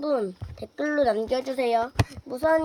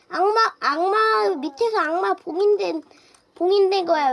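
urgent alarmed shout; 4 semitones higher, 7 dB louder than usual. Pretend. Urgent warning about the sealed demon.

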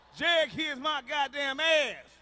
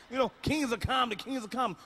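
much softer, settled calm delivery; calm and quiet; 6 dB quieter than usual. Real, not acted. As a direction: say it like an unbothered king. Describing calm kings.

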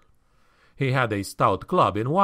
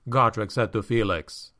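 ordinary delivery, nothing marked

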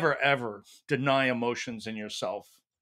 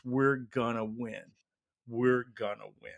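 slow, steady and sure; calm conviction. Retold or imitated. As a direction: say it slowly, eye to eye. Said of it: "looks them right in the eye and says".

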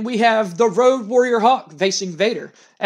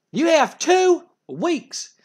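"You have two weeks" drawn out, very slow and high; slow menacing threat; 10 semitones higher, much slower than usual. Retold or imitated. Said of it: "And Jim Cornette goes".

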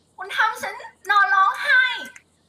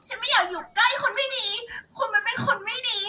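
higher, tearful pleading with laughter slipping in; acted crying; 4 semitones higher than usual. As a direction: beg him to let go, sobbing. (ร้องไห้อ้อนวอนแบบแสดง)

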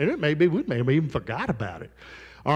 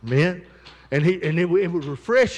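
bones rattling louder, voice swelling big; preaching loud; 6 dB louder than usual. Real, not acted. Preacher booms to the congregation about Joseph's bones. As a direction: lift it to the back row as the bones get louder.

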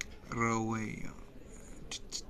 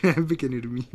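بحبك يا نرمين said louder, leaning on بحبك; a louder, bolder بحبك يا نرمين; louder declaration; 7 dB louder than usual. Shown as a demonstration. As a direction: announce بحبك يا نرمين with a loud push on بحبك. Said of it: "قول".

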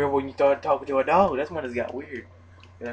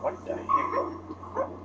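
drawn-out what the heck; 4 dB quieter, much slower than usual. Real, not acted.

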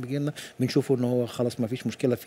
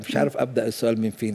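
usual speaking voice

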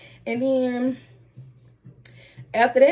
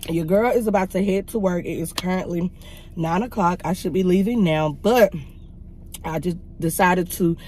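talking around a retainer; wearing a retainer. Real, not acted. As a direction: speak with a retainer in your mouth. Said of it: "If I'm talking funny, I have my retainers in my mouth".

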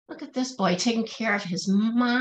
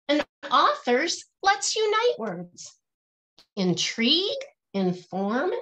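rhythmic, lilting picture-book verse; reading to children; 4 semitones higher, much slower than usual. Acted. Teacher reading a rhyming picture book aloud to her class, lilting and rhythmic. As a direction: bounce each rhyme for the kids, then land the refrain.

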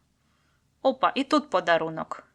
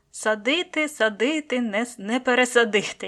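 quoting a saying; 3 semitones higher, 6 dB louder than usual. Retold or imitated. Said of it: "як то кажуть".

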